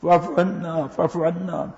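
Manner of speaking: tearful prayer. Retold or imitated. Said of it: "یہاں آ کر روتے تھے".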